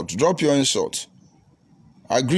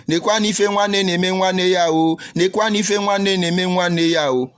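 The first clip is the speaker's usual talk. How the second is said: higher, imitated wailing complaint; mock crying lament; 5 semitones higher than usual. Mimicking a returning owner on social media, mock crying lament. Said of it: "begin to cry".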